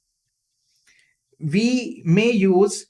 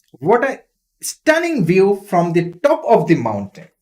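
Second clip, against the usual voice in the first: amazed. Shown as a demonstration. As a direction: gasp at the view from the peak. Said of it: "they were amazed, they were surprised".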